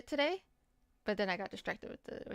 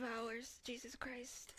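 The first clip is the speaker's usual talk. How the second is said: whisper; 13 dB quieter, much slower than usual. Real, not acted. Tired aside.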